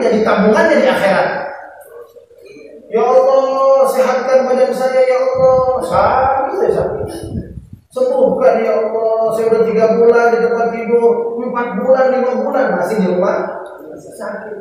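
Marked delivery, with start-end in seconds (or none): 2.9-14.6 lightly voiced petulant prayer; complaining prayer. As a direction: act out a sick man moaning to God. Acted complaining prayer of sick man.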